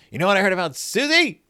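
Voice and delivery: put-on high, loud childish insult; mock yelling. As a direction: yell the insult with playful fury. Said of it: "And then she yells".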